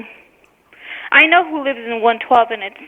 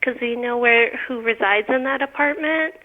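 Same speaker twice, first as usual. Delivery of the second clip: pointed, deliberate condescension; officious and pointedly patient; with attitude; slower than usual. Real, not acted. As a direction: correct the caller with attitude, pausing before the verdict. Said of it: "stop talking like that, you know, with the attitude".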